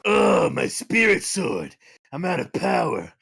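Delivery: slow mock whimper turning lovestruck; drained hero spotting his crush; hammed-up anime tough guy, slowed; Kuwabara voice. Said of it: "my Kuwabara voice".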